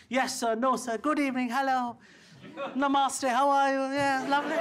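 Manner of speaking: lightly put-on posh politeness, eager to please; polite Indian-English servant voice. Indians answering British masters, eager polite English. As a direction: chirp the pleasantries like a dutiful colonial clerk. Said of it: "everything that the British people told us".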